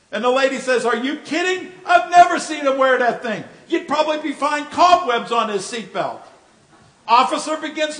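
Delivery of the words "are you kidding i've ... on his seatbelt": wife's mock outburst. Wife scoffs at husband's claim.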